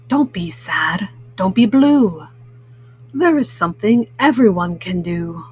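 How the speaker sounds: lightly voiced encouraging cat; Pete the Cat. Cat cheering up his discouraged friend, lightly voiced and encouraging.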